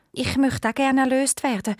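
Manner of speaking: a lonely owl princess complaining of her fate. Acted.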